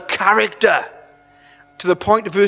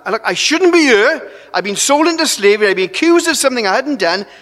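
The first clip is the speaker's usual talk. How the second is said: pleading; 4 semitones higher, 3 dB louder than usual. Acted. Joseph pleading his case to butler.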